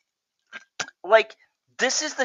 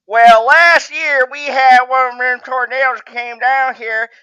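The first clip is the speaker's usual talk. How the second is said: a hint of a southern yokel; 3 dB louder than usual. Playing Billy Bob from the trailer park, lightly southern. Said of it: "I'm gonna get my southern voice out for this".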